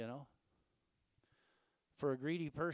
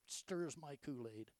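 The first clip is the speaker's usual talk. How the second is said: slowly, as a tame stand-in for a curse; slow, mock-gentle "stirs my Kool-Aid"; slow mild substitute phrase; slower than usual. Shown as a demonstration. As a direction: draw it out as a harmless oath. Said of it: "Well, say".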